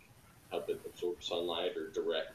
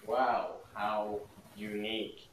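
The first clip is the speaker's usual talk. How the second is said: slow, dry, mock-impressed; deadpan sarcasm; much slower than usual. Real, not acted. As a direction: drawl it out like you couldn't care less. Deadpan reply to silly name.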